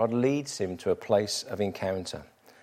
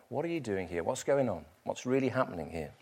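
gentle voice of God; 9 dB quieter than usual. Retold or imitated. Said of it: "God speaks to Elijah in the fire".

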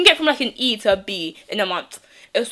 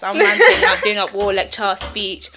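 laughing; 5 dB louder, slower than usual. Real, not acted. Laughing at her own rant.

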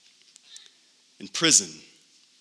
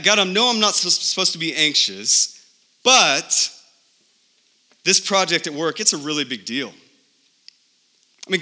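building from a light plea to a higher, faster, frantic rush; each excuse more frantic than the last; anxious pleading prayer; 4 semitones higher than usual. Retold or imitated. Preacher acting out a worried believer's prayer to God, rising pleading.

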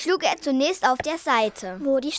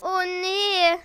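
ein kleines, gespieltes Jammern; leicht jammernd; 5 semitones higher than usual. Acted. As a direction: seufzt unwillig auf. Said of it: "jammerte Pupsi". (Pupsi jammert leise vor der Brücke)

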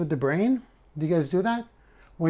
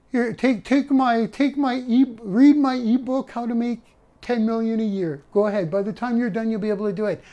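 mock guru pitch; 6 semitones higher than usual. Mock guru selling an ebook.

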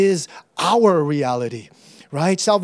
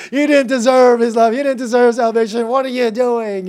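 mock self-accusation, insistent and raised; guilt-ridden self-scolding; 3 semitones higher, 6 dB louder than usual. Preacher acting out a guilty believer's thoughts, mock scolding. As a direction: scold yourself in exaggerated guilt.

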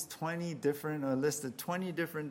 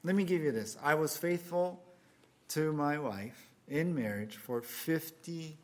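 eager man pleading. Acted. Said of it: "So the man says".

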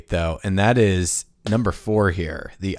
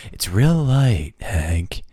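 nineties villain; slower than usual. Retold or imitated. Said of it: "they just talk like this".

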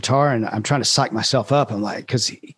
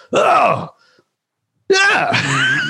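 mock high "oh yeah". Star agreeing to sign the fan's guitar, mock high squeal. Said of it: "he's like".

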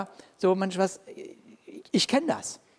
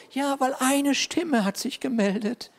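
sheepish Elijah; 5 semitones higher than usual. Pretend. Elijah answers God.

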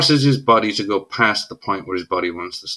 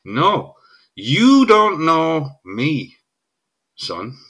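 very slow, dragged-out put-down; slow, commanding quote; drawn-out assertion; 3 semitones higher, much slower than usual. Retold or imitated. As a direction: stretch each word to assert rank. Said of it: "He is asserting himself".

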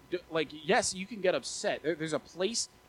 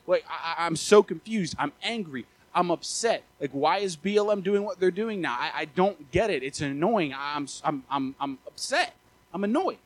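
worked-up, higher-pitched mock rant; freaking out; 4 semitones higher, 4 dB louder than usual. Preacher re-enacting his rant after watching the news, freaking out. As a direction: re-enact an exasperated, baffled outburst. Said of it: "I'm freaking out".

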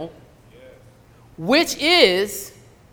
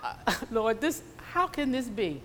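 retold crying prayer; 8 dB quieter than usual. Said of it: "just crying and crying".

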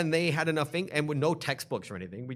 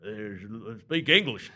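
louder, mocking monolingual grump; mock intolerant demand; 4 semitones lower, 5 dB louder, much slower than usual. Mocking people who demand English of learners, loud and impatient. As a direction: imitate someone demanding English, with force. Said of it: "walk around going".

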